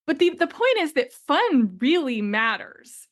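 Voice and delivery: usual speaking voice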